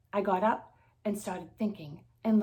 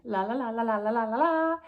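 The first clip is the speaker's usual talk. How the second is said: testing voice; 5 semitones higher, 6 dB louder than usual. Acted. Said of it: "I tried speaking".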